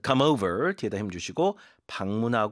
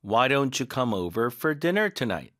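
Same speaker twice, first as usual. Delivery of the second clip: very slow, words run together; more linked; much slower than usual. Shown as a demonstration. Teacher linking the whole sentence smoothly. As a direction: blend every word into the next. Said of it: "아예 더 연결했죠".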